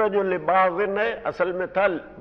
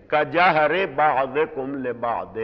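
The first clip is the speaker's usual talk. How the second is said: slow citation; much slower than usual. Shown as a demonstration. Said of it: "کا میں نے مانند".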